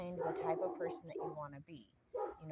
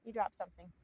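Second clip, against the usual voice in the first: high, sugary polite voice; overly polite; 8 semitones higher than usual. Retold or imitated. To a stranger who littered, high sugary politeness. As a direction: lift the pitch and sweeten it like customer service. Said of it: "I'm real polite about it".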